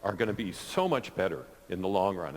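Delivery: holding back tears while speaking; choking up. Real, not acted. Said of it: "I'm choking up a little bit".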